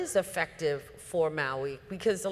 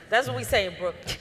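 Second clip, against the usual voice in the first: laughing; 3 semitones higher, 3 dB louder, faster than usual. Real, not acted. Laughing after slang.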